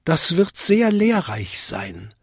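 high little-bell voice; small high-pitched bell, keen; Vinzi. A narrator's reading. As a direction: tinkle it politely, high. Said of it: "bimmelte Vinzi".

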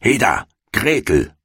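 high, impatient witch's call. A narrator's reading. Witch out of patience summons Gretel, calling out. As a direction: summon the girl sharply, without real shouting. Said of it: "rief sie dem Mädchen zu".

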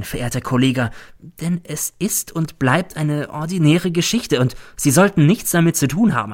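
a hint of a scheming old crook, confiding; Cäsar. Cäsar confides the plan to his colleague, sly.

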